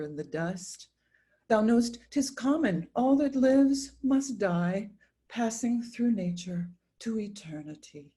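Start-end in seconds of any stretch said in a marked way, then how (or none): 1.5-8.1 higher, louder, slowing on the last words; loud pleading insistence. Acted. Mother urging her mourning son, loud and insistent.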